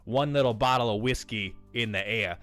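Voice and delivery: a hint of a boozy old salesman spinning his airport yarn; light old-timer voice telling a cautionary tale; old guy Howard. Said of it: "Howard's an old guy that talks like this".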